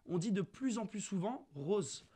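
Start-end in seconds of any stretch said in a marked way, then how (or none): 1.5-2.1 "rose" with a closed O; standard closed O. Shown as a demonstration. Debater showing Marseille's new form, "rose" with closed O. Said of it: "À Marseille".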